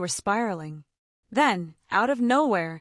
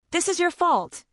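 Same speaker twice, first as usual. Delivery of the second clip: spat; 8 semitones higher than usual. A narrator's reading. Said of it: "he spat".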